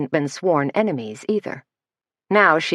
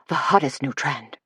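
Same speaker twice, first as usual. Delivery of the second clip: cooed; 3 dB quieter than usual. Acted. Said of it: "cooed Brett".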